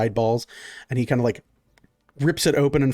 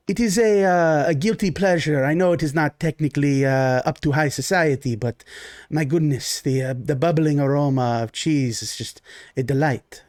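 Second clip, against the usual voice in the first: lightly voiced genteel Baron. GM as the Baron greeting his guests: lightly voiced genteel host. Baron praises the cheese balls.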